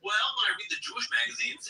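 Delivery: high-pitched mock Jewish accent. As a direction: answer as a joke character in Jewish accent. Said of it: "He's like".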